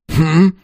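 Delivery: short high "hm?"; questioning hum. A narrator's reading. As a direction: hum it as a casual query. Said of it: "хмыкнул в ответ". (вопросительное хмыканье)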